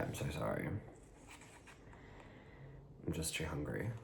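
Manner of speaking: talking while chewing; speaking through a mouthful of food; mouth full. Real, not acted. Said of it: "I need to take another bite".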